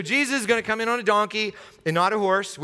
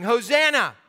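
raised, higher cry of praise; crowd shouting; 5 semitones higher, 4 dB louder, slower than usual. Acted. Crowd hailing Jesus as he rides in, shouting. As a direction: call out like the crowd. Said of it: "They're shouting".

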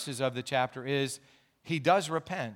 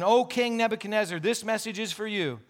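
higher-pitched, lightly proclaimed heavenly summons; 4 semitones higher than usual. Acted. Preacher voicing heaven's message to King Nebuchadnezzar, lightly proclaiming. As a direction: call it out as a mild pronouncement from above. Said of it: "A voice called down from heaven".

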